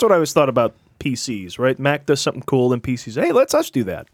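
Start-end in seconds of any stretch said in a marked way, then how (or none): 3.1-4.1 mock copycat voice. PCs copying Mac, voiced.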